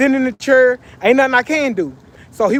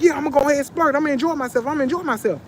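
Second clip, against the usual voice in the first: imitated friend's higher, insistent voice; arguing homeboy; 5 semitones higher, faster than usual. Homeboy justifying his splurging, imitated in a higher insistent voice. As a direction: argue it high, mimicking a stubborn buddy. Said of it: "he legit argued me down".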